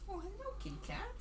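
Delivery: high soft pet-talk voice; talking to a cat. Real, not acted. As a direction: coo at the kitty.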